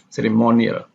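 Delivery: "Ceremonial" as cere-MO-nial; stress before the ending. Shown as a demonstration. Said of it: "this is the same case with definition".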